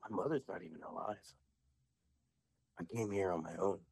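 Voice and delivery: lightly imitated child witch, deadpan; daughter in character. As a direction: state it with understated gravity, long pause between sentences. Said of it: "she's talking just like this".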